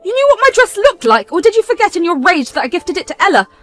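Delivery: a mother scolding her daughter loudly; furious scolding. Acted.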